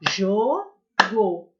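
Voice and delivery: Jogo drawn out slowly as jo-go; teacher and pupils clap it out slowly; slow syllables. Shown as a demonstration. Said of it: "lentamente digam jogo".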